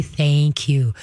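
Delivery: calm, measured thanks; calm praise. Shown as a demonstration. Trainer shows caller how to praise the dog, calmly. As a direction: say it evenly, keep the dog settled. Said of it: "Just calmly say".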